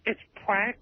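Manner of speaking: talking through a mouthful; words garbled by food; mouth full. Real, not acted. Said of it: "You can't even understand you".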